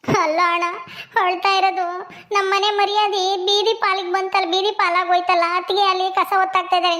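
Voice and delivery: acted tearful lament with sobs; weeping complaint, breaking into sobs; crying. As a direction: wail your grief to a brother. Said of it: "ಯಾಕೆ ಅಳ್ತೀಯ".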